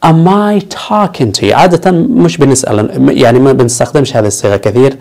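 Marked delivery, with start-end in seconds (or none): 0.0-1.5 mock angry. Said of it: "لما تتعصب تقول له".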